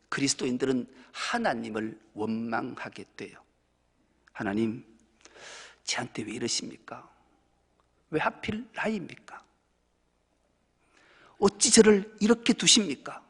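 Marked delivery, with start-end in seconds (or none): 4.3-13.2 a hint of bitter pleading, ending loud; complaining to God. Believer complaining to God about hardship, pleading then louder. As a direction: voice a believer's lament, rising at the end. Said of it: "이렇게 원망해요".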